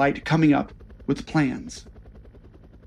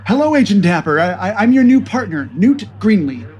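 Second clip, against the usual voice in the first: put-on nervous young agent; 4 semitones higher, 3 dB louder than usual. Nervous new agent introduces himself.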